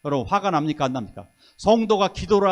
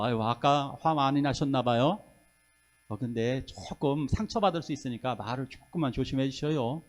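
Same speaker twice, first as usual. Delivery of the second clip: gentle advice; 5 semitones lower, 6 dB quieter than usual. Pretend. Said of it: "밥을 먹으면서".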